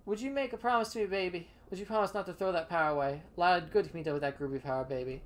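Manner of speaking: put-on laid-back hip cat crooning "baby"; a lightly voiced smooth jive talker; groovy hipster. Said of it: "Charles doesn't call me baby".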